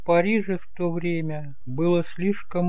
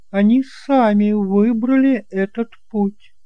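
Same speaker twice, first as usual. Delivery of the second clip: higher, louder aunt, firmly setting him straight; higher, louder aunt correcting the nephew; aunt Eloi, correcting; 6 semitones higher, 6 dB louder than usual. Acted. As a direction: insist it was their own choice.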